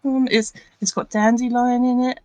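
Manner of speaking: high, halting character voice; sweet little helper, tripping over words; eager little Primrose. Acted. Plays Primrose explaining the salve.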